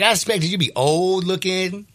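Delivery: retold stranger. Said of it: "he's like".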